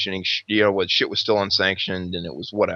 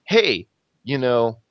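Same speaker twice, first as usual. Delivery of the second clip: mild retold irritation, rising higher; retold anger; 3 semitones higher than usual. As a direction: act out a peeved challenge. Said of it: "continues to get mad and mad".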